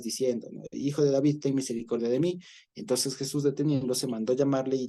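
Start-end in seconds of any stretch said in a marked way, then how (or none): 0.7-2.4 crying out. Acted. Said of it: "él clamaba mucho más".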